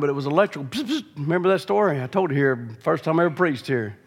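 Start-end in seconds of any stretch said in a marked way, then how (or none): 0.7-1.1 quick hushed double psst zap; imitated zap. Showing the congregation the electric iron, imitated zap. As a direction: mimic a little electric zap.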